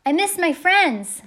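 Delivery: high, slow, loud holler; drawn-out yell; shouted confession. A narrator's reading. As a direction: shout it out long over the wind. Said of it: "Salvador shouted".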